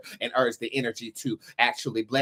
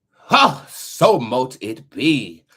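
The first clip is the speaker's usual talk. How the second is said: triumphant shout; 9 dB louder, much slower than usual. Real, not acted. Triumphant close of prayer.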